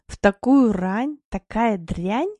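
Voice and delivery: slow, sulky grumbling; displeased grumble. Acted. Wife Mila grumbles at the early wake-up, slow and sulky. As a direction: drag it out, grumpy and half asleep. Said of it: "проворчала недовольно Мила".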